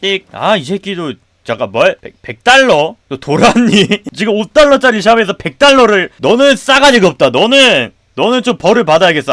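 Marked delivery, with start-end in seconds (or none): 3.2-9.3 higher, louder mock telling-off; mock scolding. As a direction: scold the rude customer, half in jest. Scolding a rude customer.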